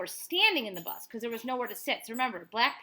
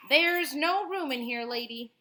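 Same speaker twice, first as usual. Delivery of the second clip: higher, louder jeering rider; rude bus rider; 5 semitones higher, 8 dB louder, slower than usual. Acted. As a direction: shut her out with a sneer. Bus rider turning her away.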